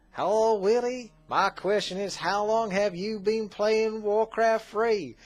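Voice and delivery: high, slow, put-on American accent reading a fan's question; a slow, high impression of an American accent. Reading a Minnesota viewer's question aloud, put-on American accent. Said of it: "that probably sounds nothing like their accent".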